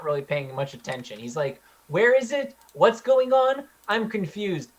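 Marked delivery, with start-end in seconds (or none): 1.9-4.7 high, whiny and confused; whiny Jewish voice. Retold or imitated. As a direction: whine it out, lost and confused. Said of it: "a really whiny Jewish voice".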